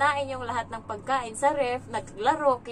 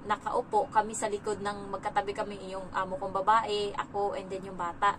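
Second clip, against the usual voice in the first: usual speaking voice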